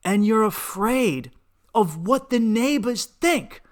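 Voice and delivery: rising from a sharp retort into a full, slow furious yell; furious shout. Retold or imitated. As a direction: build from angry disbelief to a roar at your mother. Yelling at mother about neighbors.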